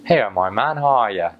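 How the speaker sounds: chatty Norfolk local calling out; light Norfolk accent, relaxed and friendly. Retold or imitated. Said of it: "That was Norfolk".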